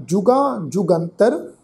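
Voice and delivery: ਜੁਗਾਂ ਜੁਗੰਤਰ drawn out slowly with lifted word endings; demonstrated tone. Shown as a demonstration. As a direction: recite ਜੁਗਾਂ ਜੁਗੰਤਰ slowly, letting the tune rise. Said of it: "ਤੁਸੀਂ tone ਸਮਝੋ".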